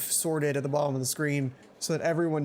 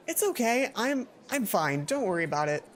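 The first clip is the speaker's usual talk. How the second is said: forced cheerful reply; 4 semitones higher than usual. Acted.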